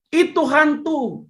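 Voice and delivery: high, slow cry of ghost fear; mock ghost scare. Preacher mimics disciples screaming ghost.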